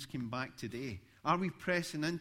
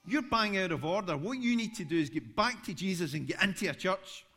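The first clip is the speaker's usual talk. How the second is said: loud, raised scolding of a heckler; retold telling-off; 4 semitones higher, 5 dB louder than usual. Preacher retelling how he scolded a street heckler, raised and loud. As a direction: tell him off firmly, voice up. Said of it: "I said something like".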